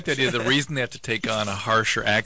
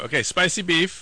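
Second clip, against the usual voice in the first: higher, slow imitation of the order taker; mimicked order taker, slow and high; order read-back; 7 semitones higher than usual. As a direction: read it back slowly and wrongly sure. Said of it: "then they read it back to you".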